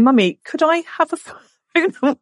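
put-on high, drawn-out child's plea; pleading daughter. Daughter asking Mummy for a phone, imitated high pleading. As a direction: imitate a little girl begging Mummy. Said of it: "come home from school saying".

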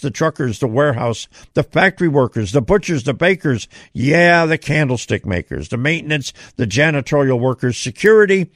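long list without a breath; rushing on one breath; running out of air. Real, not acted. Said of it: "I said all that without taking a breath".

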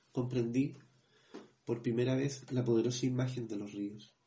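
measured, even reading of a grief memoir; book reading. Acted. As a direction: read the passage steadily, like an audiobook. Reads book passage aloud.

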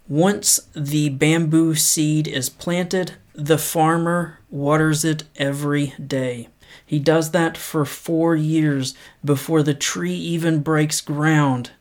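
measured, unhurried reading of a quote; paced motivational read; slow inspirational quote reading. Acted. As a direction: read it slow and earnest, letting each line land. Reads quote slowly.

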